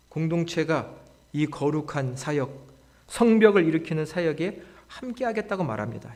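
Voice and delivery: normal talking voice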